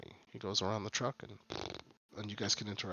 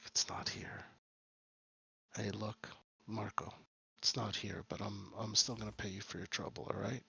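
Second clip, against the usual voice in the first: hushed; 3 dB quieter than usual. Acted. Kazi hushed at warehouse.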